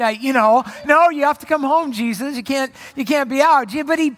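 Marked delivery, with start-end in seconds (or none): 0.8-3.7 a hint of a strict mother, raised and louder; lightly voiced stern parent calling her son home; mock scolding parent. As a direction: insist he come home like a nagging parent. Parent scolding Jesus about curfew.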